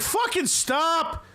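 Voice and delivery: high, slow, mocking drawl; a lightly hammed-up schemer voice; Baelish imitation. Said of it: "And he's like".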